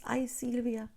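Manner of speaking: a hint of a doting mother; adoring mom. Imitating her mom's adoring sigh. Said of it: "an adoring voice".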